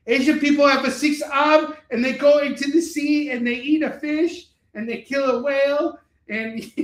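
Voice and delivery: mock stereotype voice. Mocking racist stereotype voice.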